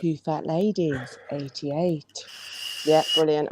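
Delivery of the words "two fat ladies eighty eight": bingo caller. Shown as a demonstration. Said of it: "I am".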